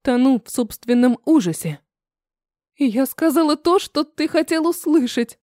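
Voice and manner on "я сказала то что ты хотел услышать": higher, frightened but defiant; trembling voice. A narrator's reading. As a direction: push the words out high through fear. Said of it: "произношу дрожащим голосом". (Элина отвечает Руслану высоко, с дрожью в голосе)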